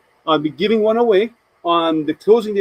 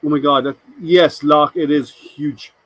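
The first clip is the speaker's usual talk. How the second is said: bad Scottish accent; slower than usual. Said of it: "my really bad attempt at a Scottish accent".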